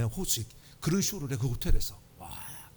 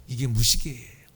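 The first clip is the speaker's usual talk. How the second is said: Jeolla dialect; 4 semitones lower than usual. Retold or imitated. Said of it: "전라도 사람들은 뭐라 했겠어요".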